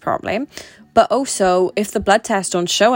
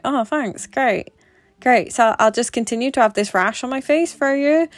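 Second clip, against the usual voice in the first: mock-grateful, pitched higher, dripping sarcasm; sarcastic, higher-pitched thanks to the doctor; 5 semitones higher than usual. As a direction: fake gratitude, eye-roll in the voice. Sarcastic reply to doctor's advice.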